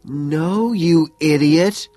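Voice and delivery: high, loud, drawn-out groan; exasperated groan. A narrator's reading. Woman correcting her lover who misheard, exasperated groan. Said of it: "she groans".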